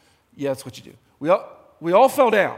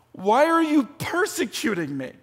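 voice of God; 5 semitones higher, 4 dB louder than usual. Retold or imitated. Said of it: "this voice says".

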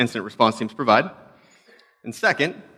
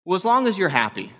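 higher, sweetly doubtful sister; polite doubt; 7 semitones higher than usual. Retold or imitated. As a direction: feign support, hide the doubt. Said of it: "they look at you and go".

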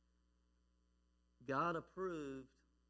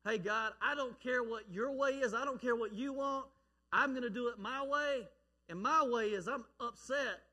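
defiant Cain; 3 semitones higher, 4 dB louder than usual. Acted. Cain defies God, sermon retelling.

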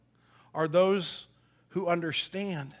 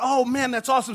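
put-on awed kid; 5 semitones higher, 5 dB louder, faster than usual. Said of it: "And I went".

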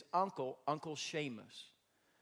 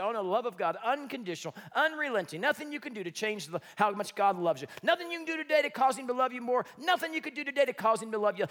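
high, loud, fast mock sermon line; hammed-up self-parody of his preaching; fervent preaching; 6 semitones higher, 6 dB louder, faster than usual. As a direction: preach it with full fervour. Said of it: "and I say".

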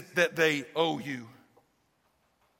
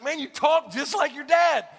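retold laughing remark; 8 semitones higher, 5 dB louder than usual. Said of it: "I started cracking up".

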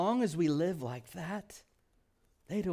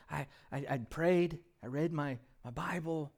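pleading believer. Pretend. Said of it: "Little tokens of".

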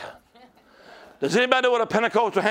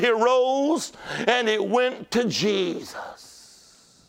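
sustained, ringing revival preaching; fervent preaching; 3 semitones higher, slower than usual. Real, not acted. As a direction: preach it hard, stretching out the key words. Preaches at full force.

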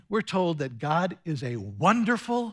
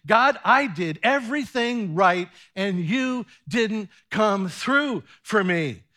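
angry complaint; 4 dB louder than usual. Acted. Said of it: "I hear Elijah's anger and disappointment saying".

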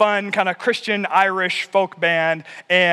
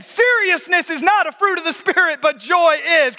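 emphatic; 8 semitones higher than usual. Real, not acted. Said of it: "I'ma say that again".

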